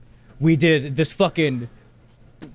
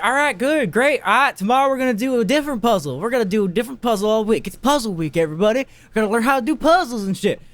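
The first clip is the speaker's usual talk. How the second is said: higher, quick, chirpy kindergarten teacher; mock-bright classroom announcement; hammed-up cheerful teacher telling the class about puzzle week; cheery teacher; 5 semitones higher than usual. Kindergarten teacher voiced in story.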